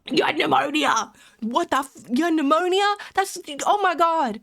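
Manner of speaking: high-pitched disbelief; shocked. Real, not acted. Streamer learning a viewer had pneumonia, shocked. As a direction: exclaim it aghast, pitch jumping up.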